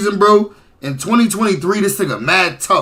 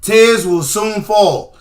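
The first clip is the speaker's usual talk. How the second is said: mock dramatic; much slower than usual.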